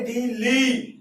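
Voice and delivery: डी ली with the weight on ली; stress on second syllable. Shown as a demonstration. Teacher locating the stress, डी ली stressed on ली. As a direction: lean on ली after डी. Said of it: "ली के ऊपर stress है".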